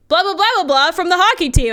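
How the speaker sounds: imitating a coworker suddenly starstruck. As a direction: gush the name like a thrilled fan. Starstruck coworker naming player.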